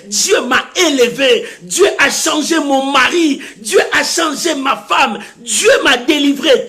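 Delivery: emphatic list, climbing to a high pitch; rhythmic, insistent sermon delivery; building testimony preaching. Real, not acted.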